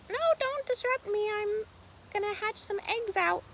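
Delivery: high, squeaky little duck voice, put out; a nesting duck shooing you off; broody duck voice. Pretend. The hen duck telling her off, high and squeaky.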